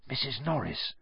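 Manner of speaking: hushed, fearful murmur; breathed. A narrator's reading. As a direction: barely breathe the name. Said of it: "breathed Ron".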